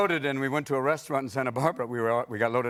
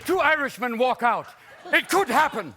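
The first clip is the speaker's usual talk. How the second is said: high, loud, slow mock stand-up delivery; mock comic; 11 semitones higher, 3 dB louder than usual. Hammed-up stand-up comic telling a bar joke. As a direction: bark a corny joke like an old-time comic.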